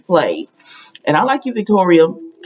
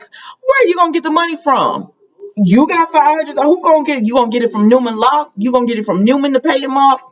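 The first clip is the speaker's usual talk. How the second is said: incredulous retorts; 5 semitones higher than usual. Retold or imitated. Victor grilling Adam over money.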